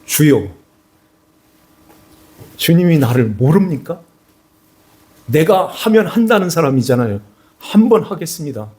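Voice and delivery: a hint of hurt pride pushing back at his master; indignant Peter. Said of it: "화가 났을까요?".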